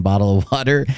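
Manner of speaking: mock British "bottle of water"; an American's light go at a British accent; imitated British accent. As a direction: lightly poke fun at British speech. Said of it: "like British people saying".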